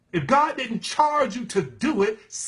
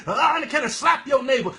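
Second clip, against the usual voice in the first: mocking hype preacher; 4 semitones higher than usual.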